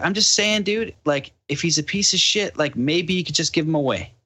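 high, careful appeasing voice; nervous pleading. Retold or imitated. Calming the drunk man about his dog, nervous high plea. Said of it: "I was like".

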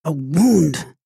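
a mother's shocked disbelief; alarmed echo. A narrator's reading. Mother echoes the news in alarm.

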